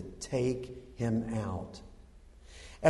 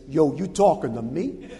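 louder, lightly played street-tough comeback; David; 5 dB louder than usual. King answers the giant's threat, mock tough. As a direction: toss back a mock challenge. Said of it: "And David says".

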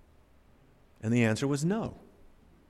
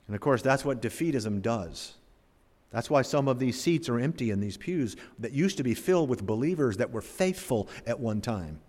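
normal talking voice

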